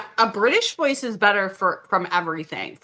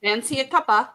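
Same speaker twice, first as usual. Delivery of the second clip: lightly put-on posh English; posh British accent; 2 semitones higher, much faster than usual. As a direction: offer it like a posh Brit. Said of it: "It is posh, people".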